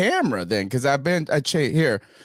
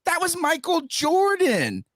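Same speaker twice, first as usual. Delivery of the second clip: higher, worked-up fan complaining; mock rant; 10 semitones higher than usual. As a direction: gripe like a frantic fan. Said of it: "you go".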